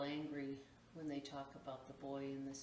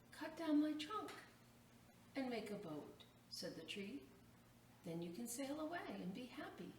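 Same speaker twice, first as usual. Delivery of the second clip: giving tree's offer; 6 semitones higher than usual. Acted. Tree offers its trunk.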